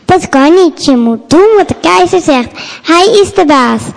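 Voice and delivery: stern. Acted. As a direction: lay down the law firmly. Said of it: "zegt de soldaat streng".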